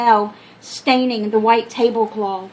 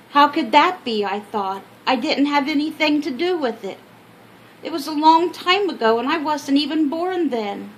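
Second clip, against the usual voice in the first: put-on higher, puzzled little girl; child's voice; 4 semitones higher than usual. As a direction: think it like a confused child. Child's inner thoughts quoted.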